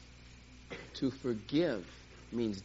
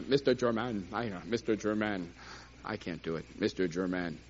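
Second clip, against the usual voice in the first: put-on African accent; 7 semitones lower than usual. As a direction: imitate the African friends' accent gently. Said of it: "I can't talk like them".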